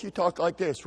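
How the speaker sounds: put-on firm model of proper boy talk; demonstrating manly talk. Shown as a demonstration. Dad modelling for his son how to talk, firm. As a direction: show him plainly how to speak. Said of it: "God gave you a low voice".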